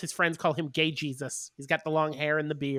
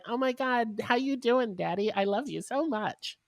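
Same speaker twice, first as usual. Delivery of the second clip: gushing twink; 6 semitones higher than usual. Retold or imitated. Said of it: "and is like".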